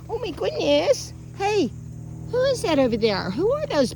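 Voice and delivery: high, excited exclaiming; upbeat dog talk. Shown as a demonstration. Trainer showing dog people are fine, upbeat dog talk. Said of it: "learn to do this".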